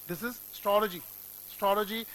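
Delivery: astrology said as stology; final model. Shown as a demonstration. Teacher giving the final model word. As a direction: say astrology without the A. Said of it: "और वो क्या है".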